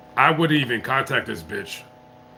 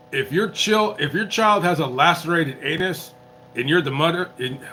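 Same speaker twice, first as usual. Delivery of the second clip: tipsy, tripping over words; 4 semitones higher than usual. Real, not acted. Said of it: "God, I'm so buzzed right now. Why can't I speak?".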